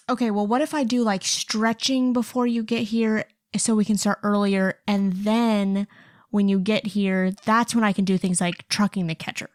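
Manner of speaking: imitating a coach's sarcastic suggestion. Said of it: "'cause he's super sarcastic".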